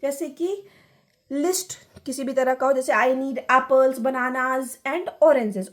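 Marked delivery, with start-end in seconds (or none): 2.9-5.7 slow list, "apples" and "bananas" rising, "oranges" falling; list intonation. Shown as a demonstration. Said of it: "ऑरेंजेस में यहाँ पे लो हो गया".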